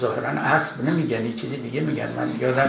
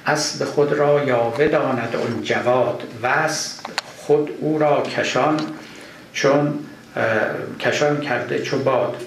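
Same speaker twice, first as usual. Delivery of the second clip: measured, lilting reading of a Persian couplet; verse recitation. Acted. Lecturer reciting Rumi's couplet to his students, measured recitation. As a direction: chant the couplet slowly to the class.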